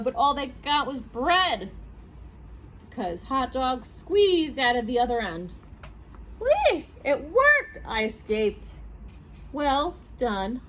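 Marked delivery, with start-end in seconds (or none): 6.4-8.7 high, loud squeal of glee; gleeful hot dog. Acted. Hot dog has escaped being eaten, high loud glee. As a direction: cheer out loud, pitched way up.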